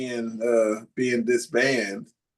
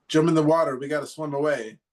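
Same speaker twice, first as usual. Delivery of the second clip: higher-pitched imitation of frantic urging; retold urgent order; 5 semitones higher than usual. Son retelling dad ordering family into the water, urgent. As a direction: mimic a panicky dad giving orders.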